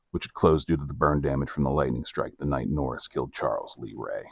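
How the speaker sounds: measured storyteller's read; scripted narrator voice, evenly paced; documentary narration. A narrator's reading. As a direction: narrate the case like a true-crime report. Reads scripted case narration.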